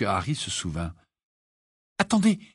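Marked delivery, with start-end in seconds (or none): 2.0-2.4 sudden higher-pitched call; quick mild call-out; calling to wait. Acted. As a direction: stop someone before they walk on. Harry suddenly remembers, stops Mr Weasley.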